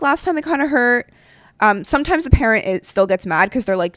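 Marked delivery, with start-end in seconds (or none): 0.0-1.1 gentle reminder. Pretend. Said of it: "if I'm just like".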